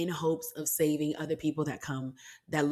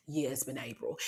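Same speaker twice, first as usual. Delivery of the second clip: whisper; 3 semitones lower, 7 dB quieter than usual. Real, not acted. Aside after asking herself.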